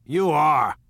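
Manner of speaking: loud, high exclamation of disbelief; incredulous. A narrator's reading. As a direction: exclaim as if you can't believe it. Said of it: "looked at her incredulously".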